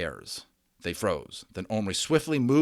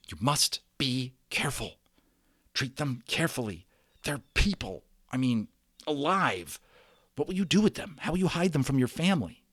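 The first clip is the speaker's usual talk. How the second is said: whispered; 5 semitones higher than usual. A narrator's reading. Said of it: "he whispered".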